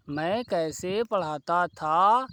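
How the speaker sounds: मैं कैसे पढ़ाता था drawn out slowly, word by word; slow dictation. Shown as a demonstration. Teacher dictating the Hindi example slowly to the class. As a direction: repeat it slowly so students can write. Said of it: "तो हिंदी कैसे होती".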